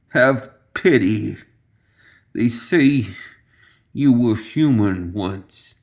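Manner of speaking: slow, slurred drowsy plea; slurred pleading. Acted. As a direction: drag the words like a drugged man. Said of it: "slurring his words".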